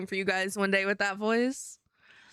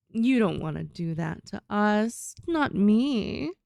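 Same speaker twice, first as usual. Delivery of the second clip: slow, a little lower, coaxing; lightly deeper persuasive voice; 4 dB louder, slower than usual. Shown as a demonstration. Showing the character's deeper persuading voice, lightly. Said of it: "we can pull this one out".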